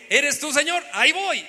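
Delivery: jumping ahead without waiting; hasty wrong version. Pretend. Preacher mimics an impatient Pedro, eager. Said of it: "Pedro no dijo".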